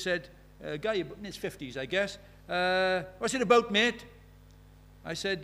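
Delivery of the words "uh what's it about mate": high, louder mock voice of a bloke; a lightly voiced passer-by asking; man asking. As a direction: voice the curious man a touch high. Man in his fifties quoted.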